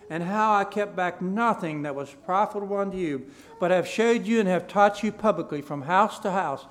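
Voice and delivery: loud, declaimed Bible reading; projected pulpit reading voice; scripture reading. Acted. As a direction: read the verses out firmly to a congregation. Reads scripture aloud to congregation.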